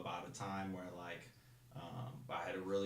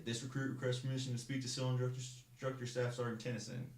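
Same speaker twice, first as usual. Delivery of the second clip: higher, stiff recruit reciting his request; formal recruit request; 4 semitones higher than usual. Retold or imitated. Recruit at the door asking to speak, stiff and formal. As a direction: rattle it off like a recruit at attention. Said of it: "go bang on the door and say".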